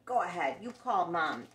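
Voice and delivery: loud, daring big-brother challenge; taunting big brother. Acted. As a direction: dare him to tell Mom. Brother dares him, read aloud.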